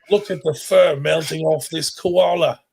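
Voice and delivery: mock Australian TV voice over the koala footage; Australian accent. Describing burnt koalas on the news, in a hammed-up Australian accent. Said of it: "Was that your Australian accent?".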